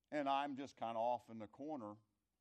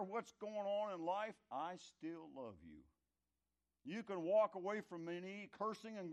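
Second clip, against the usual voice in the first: impassioned; 6 semitones higher, 3 dB louder than usual. Acted. Preacher voicing a steadfast promise.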